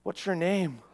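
soft, calm question; a hint of calm authority; very calmly. A narrator's reading. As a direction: ask it gently and evenly. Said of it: "very calmly".

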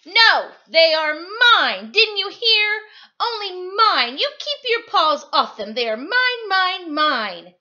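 high, loud tantrum over his toys; a pug losing it, stretched out and loud; Pig flipping his wig. Acted. Pug screams at Trevor over his toys, high and loud. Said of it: "Pig flipped his wig".

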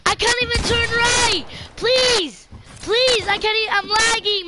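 high pleading panic; frantic pleading. Real, not acted. Panicking over lag.

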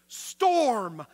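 loud, high command to the storm; commanding call. Acted. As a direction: shout it down at the storm.

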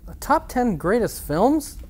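high, slow, disbelieving question; can't believe the idea; incredulous. Real, not acted. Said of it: "that's so basic".

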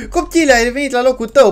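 gasp, then high, rapid exclamation; delighted surprise. Pretend. Player to returned baby, high quick surprise. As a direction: greet the returned child in high astonishment.

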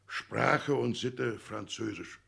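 slow mocking read. Father reads out, dragging it.

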